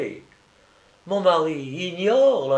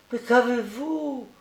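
put-on higher, drawn-out little-boy plea; insistent child's question; 10 semitones higher than usual. A narrator's reading. Sick boy asks his weeping friend, insistent and pleading. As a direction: press the question slowly, pitched high.

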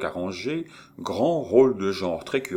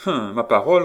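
compassion; 3 semitones higher, 7 dB louder, faster than usual. Acted. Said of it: "d'un ton de compassion".

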